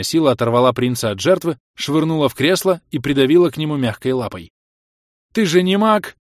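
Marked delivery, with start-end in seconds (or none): 5.3-6.2 loud, high, furious outburst; shouting. A narrator's reading. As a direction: yell it at full force. Furious prince shouting at friend. (яростный крик)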